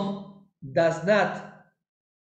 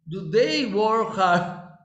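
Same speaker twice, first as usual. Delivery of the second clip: slow repeat; 2 semitones higher, much slower than usual. Shown as a demonstration. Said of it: "Ellos trabajan duro".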